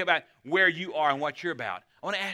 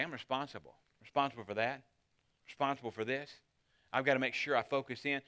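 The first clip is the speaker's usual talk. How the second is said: quiet resolve; 3 semitones lower, 6 dB quieter than usual. Pretend. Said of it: "you began to realize something".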